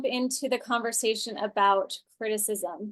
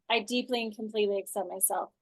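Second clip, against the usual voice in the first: softer, quicker recited affirmation; self-acceptance affirmation; 2 semitones lower, 5 dB quieter, faster than usual. Shown as a demonstration. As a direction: recite it softly to yourself. Acted tapping affirmation after venting.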